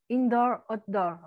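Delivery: indoor, outdoor in English; English words. Shown as a demonstration. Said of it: "désolée pour mon accent anglais".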